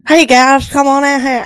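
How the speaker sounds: teasing impression of a twangy Southern DJ; mock Southern accent. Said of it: "that annoying Southern accent".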